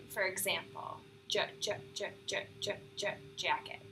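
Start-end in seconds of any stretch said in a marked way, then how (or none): 1.3-3.8 tense repeated j before jacket; tense stutter. Shown as a demonstration. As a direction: stutter hard on j, j, j. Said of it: "called a cancellation".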